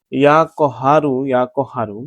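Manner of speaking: কহারু said with a short rounded "ko" first; correct pronunciation. Shown as a demonstration. Preacher teaching listeners the divine name, correct pronunciation. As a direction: say ইয়া কহারু carefully, "ko-HAA-ru". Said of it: "শুদ্ধ উচ্চারণ হবে ইয়া কহারু".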